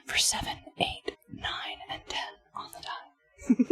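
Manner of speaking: soft unvoiced whisper; ASMR whisper. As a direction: whisper the rules close to the mic. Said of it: "just play A S M R".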